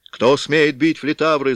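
loud, high outraged shout; angry demanding shout. A narrator's reading. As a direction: bellow it across the square. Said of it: "закричал он".

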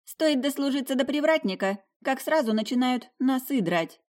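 put-on a little old lady tutting over her tea; bearded lady, fussing. A narrator's reading. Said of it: "развела руками маленькая бородатая дама".

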